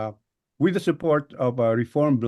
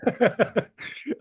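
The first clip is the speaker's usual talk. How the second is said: embarrassed laugh; 10 semitones higher than usual. Real, not acted. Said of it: "It's a tongue twister".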